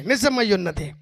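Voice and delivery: quiet echo. Acted. Preacher echoing the truth to himself, soft afterthought. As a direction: let నిజమై ఉన్నది fall away softly.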